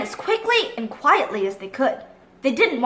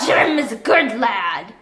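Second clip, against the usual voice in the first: slow, lower pirate call; pirate cry; 4 semitones lower, slower than usual. Acted. Long John Silver defending Jim, slow lower pirate cry. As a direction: call out to stop the crew. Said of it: "cried Long John Silver".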